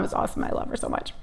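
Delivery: soft unvoiced aside; whispered love. Real, not acted. Daughter whispering her love for mom. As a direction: breathe it tenderly. Fond remark about mom.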